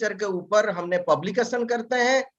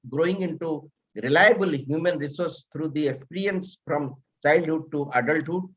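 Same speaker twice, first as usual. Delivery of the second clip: formal bio reading; 2 semitones lower, much slower than usual. Acted. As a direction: read the speaker's biography out formally, word by word. Reads a guest's written biography aloud.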